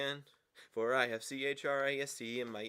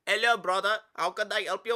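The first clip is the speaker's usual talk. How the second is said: put-on Indian accent; 7 semitones higher, 10 dB louder than usual. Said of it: "their Indian accent".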